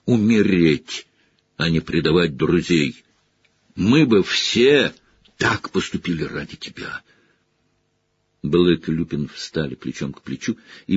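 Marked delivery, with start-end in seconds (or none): 0.0-7.0 a hint of a growl; growling Sirius. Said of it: "прорычал Блэк".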